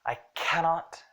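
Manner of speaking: exasperated, leaning hard on "cannot"; fed-up emphasis on "cannot". Shown as a demonstration. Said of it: "there's some exasperation in it".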